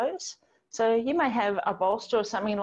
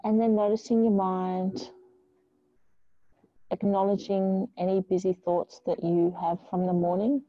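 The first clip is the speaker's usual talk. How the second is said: calm, measured yoga-teacher guidance with long pauses; unhurried meditation voice; guided meditation. Real, not acted. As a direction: ease them into stillness, leaving space between phrases. Leads a grounding meditation.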